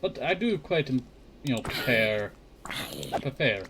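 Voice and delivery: lips sticking together; sticky-lipped, stumbling over the words; dry mouth. Real, not acted. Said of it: "Sorry, my lips keep sticking together".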